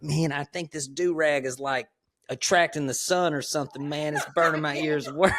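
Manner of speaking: puzzled, dead serious; a hint of Devin's earnest voice; earnest complaint.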